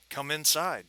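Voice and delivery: lightly voiced gravelly British fixer. Balding British dealer to arriving guests, lightly gravelly voice. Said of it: "he's got a really gravelly voice, British accent".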